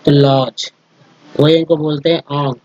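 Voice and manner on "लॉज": लॉज ending in a single J sound; silent letter. Shown as a demonstration. Teacher showing spelling rule, लॉज with one J sound. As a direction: say लॉज without a separate D. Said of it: "जी उच्चारण silent रखते हैं".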